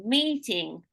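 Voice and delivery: "meeting" with MEE held and stressed; long stressed vowel. Shown as a demonstration. Teacher showing vowel length, long stressed "meeting". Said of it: "we keep it long".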